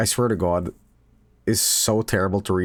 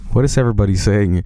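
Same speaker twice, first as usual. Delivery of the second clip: louder, bewildered cry; mock confused outburst; 6 dB louder, faster than usual. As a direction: play a baffled man, loud. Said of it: "he's like".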